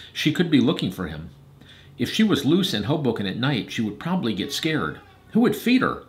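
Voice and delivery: measured, expressive storytelling; story narration. A narrator's reading. Reader telling Hadley and Eliza Arthur's story, narrating. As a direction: read a storybook aloud to children.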